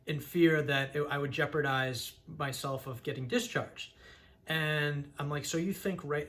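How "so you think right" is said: deliberately subdued. Retold or imitated. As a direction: ask it carefully, holding your energy down. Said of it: "I was talking like this".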